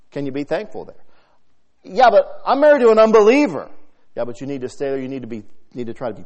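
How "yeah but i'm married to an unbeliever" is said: mock complaint.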